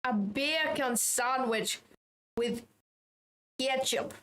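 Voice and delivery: put-on slow, playful Jamaican accent; slow teasing Jamaican accent; mock Jamaican accent. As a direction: ham up a Jamaican accent slowly. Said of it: "we've got the Jamaican accent".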